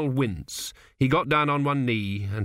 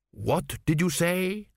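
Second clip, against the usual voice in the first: slow, higher-pitched demand from the king; menacing king; 6 semitones higher, slower than usual. A narrator's reading. King to the trembling priest he holds, slow menace. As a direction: slowly challenge a cowering priest.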